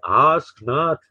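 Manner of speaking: lightly imitated New England accent; JFK. Host demonstrating the original famous line, mild New England accent. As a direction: quote the famous speech with New England vowels. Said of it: "New England accent there".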